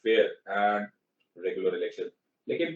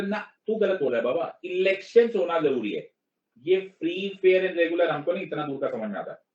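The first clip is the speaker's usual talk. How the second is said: mock China; 5 semitones higher than usual. Teacher acting out China arguing with him, higher mock voice. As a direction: play a cocky foreign official arguing back. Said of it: "China बोले".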